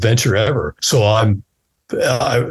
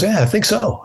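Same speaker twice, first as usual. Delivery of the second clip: high voiced friend; 11 semitones higher than usual. Voices Phil.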